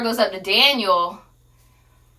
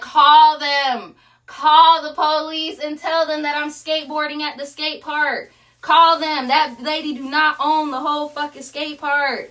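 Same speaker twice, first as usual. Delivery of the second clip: higher, challenging retort; defiant dare; 4 semitones higher than usual. Retold or imitated. Husband daring the birthday lady to call police, defiant. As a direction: taunt her to go ahead and call.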